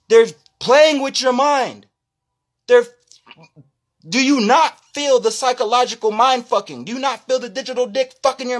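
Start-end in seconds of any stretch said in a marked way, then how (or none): 0.1-6.5 ranting. Real, not acted. Ranting at viewers.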